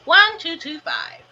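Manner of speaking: slow, even robot voice. Real, not acted. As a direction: read it like a robot. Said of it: "You sound like a robot".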